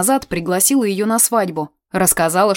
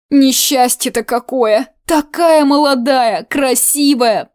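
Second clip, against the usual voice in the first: put-on higher, louder folksy old woman; gossiping old aunt; 4 semitones higher, 4 dB louder than usual. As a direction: gossip with relish and horror.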